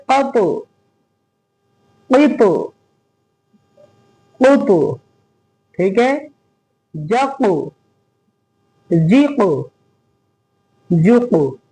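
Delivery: कप, क़ुप with the last letter bouncing out; qalqala recitation. Shown as a demonstration. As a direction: echo the final consonant of जिक, जुक. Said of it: "इसकी आवाज गूंजेगी". (कलकला के साथ)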